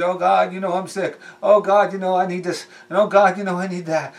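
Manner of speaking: lightly mocked begging prayer; mock pleading. Believer begging God over sickness and needs, mock pleading. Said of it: "you beg and plead".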